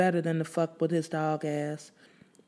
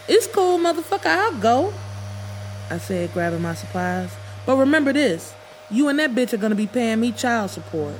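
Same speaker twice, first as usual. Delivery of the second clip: angry parting shot; 5 semitones higher, 3 dB louder than usual. Acted.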